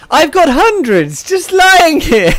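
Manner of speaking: high, loud over-eager bragging; mock boast. Co-host pretending the cereal cases are ready, mock boast. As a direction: boast it big, half laughing.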